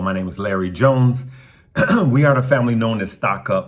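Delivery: hoarse morning voice; just-woke-up morning voice rasp. Real, not acted. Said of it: "got this morning voice".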